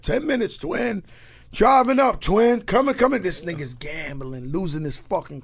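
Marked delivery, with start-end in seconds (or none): 0.0-3.2 imitating a rapper on the phone.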